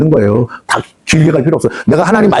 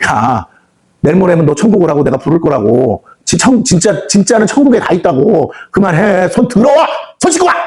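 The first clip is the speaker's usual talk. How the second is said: put-on mother calling child; 2 semitones higher than usual. God as mother calling child home.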